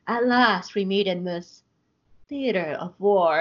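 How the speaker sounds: slow, grand, self-important delivery; over-the-top villain. Retold or imitated. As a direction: ham up the theatrical villain line. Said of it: "in such an extra bitch way".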